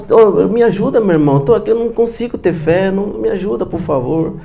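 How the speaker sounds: pleading. Acted. Acted plea of struggling believer.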